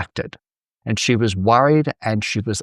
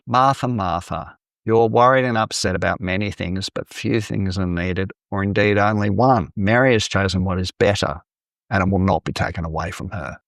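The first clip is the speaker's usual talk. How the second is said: gentle, measured reassurance, settling a little lower; warm and direct; 3 semitones lower than usual. Acted. Jesus answers upset Martha in her frustration, warm and direct. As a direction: tell her kindly and plainly. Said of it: "No, he's warm and direct".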